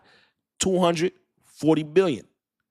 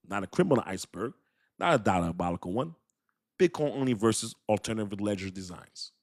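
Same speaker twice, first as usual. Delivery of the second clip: calm David Schwartz voice; 5 semitones lower than usual. Retold or imitated. Reading the CTO's reply to viewers, calm and low. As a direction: read it like a composed engineer who isn't rattled. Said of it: "let me calm down. This is my David Schwartz voice".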